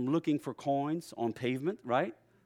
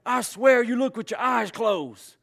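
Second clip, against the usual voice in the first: higher, louder, slow scolding; exasperated stepdad; 8 semitones higher, 6 dB louder, slower than usual. Retold or imitated. Stepdad scolding his son over the tool, slow exasperated scolding. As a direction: scold the kid in disbelief. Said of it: "get so fighting mad".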